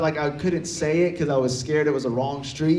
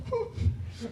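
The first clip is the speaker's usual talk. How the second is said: mock whimper; 12 dB quieter than usual. Imitating his teary, wordless panic.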